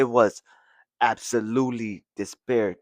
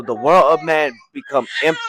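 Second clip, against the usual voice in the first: tearful dad; 3 semitones higher, 6 dB louder than usual. Acted. Dad's grave line, crying heard.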